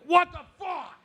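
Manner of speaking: hammed-up shock at an unexpected bill; mock outrage. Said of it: "I'm like".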